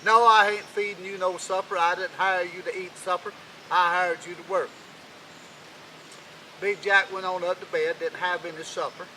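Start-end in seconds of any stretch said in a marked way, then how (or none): 0.0-4.7 louder, refusing flat out; stingy king snapping. Acted. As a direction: bark the refusal like a miser. King refuses Jack supper.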